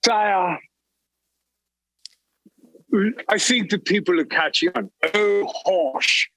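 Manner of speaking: posh English villain voice; scheming British lord accent. Acted. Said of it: "I heard an English accent".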